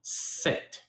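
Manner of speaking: "Sept" with the T sounded at the end; French pronunciation. Shown as a demonstration. Teaching students seven in French, careful pronunciation. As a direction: say "Sept" as one short word with a silent P. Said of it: "You hear how I say it?".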